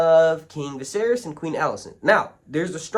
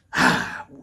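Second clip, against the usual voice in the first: sigh; 3 dB louder than usual. Real, not acted. Pauses mid-sentence to think.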